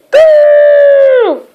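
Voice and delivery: high, cheeky taunt; a sing-song childish taunt; mocking boo. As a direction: jeer at him playfully. Girl mocks splashed Mister Vexatious.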